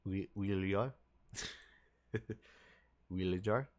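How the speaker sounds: "jar" ending on a trilled, rolled R; playful try at rolling the R in "Wheelie jar". Shown as a demonstration. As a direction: roll the R at the end of "jar", half laughing. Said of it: "Trying to roll my R at the end of it".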